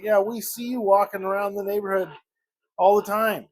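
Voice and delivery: excited neighbors. Retold or imitated. Neighbors greeting him about his dog, excited. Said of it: "are very excited to see Winston".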